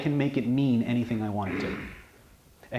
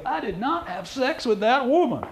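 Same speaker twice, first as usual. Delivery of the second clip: much higher, slow, strained denial; squeaky stressed denial; 12 semitones higher than usual. Shown as a demonstration. Demonstrating a nervous liar's high strained denial. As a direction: let the voice climb high and tight. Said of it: "Or do they go".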